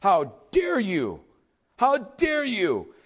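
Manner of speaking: slow, drawn-out scandalized question; indignant Pharisee. Retold or imitated. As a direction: stretch it out like a scandalized onlooker.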